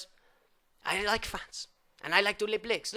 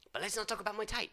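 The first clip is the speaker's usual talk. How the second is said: whisper; 8 dB quieter, faster than usual. Acted. Secretive aside.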